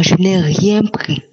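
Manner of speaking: ordinary talk, nothing marked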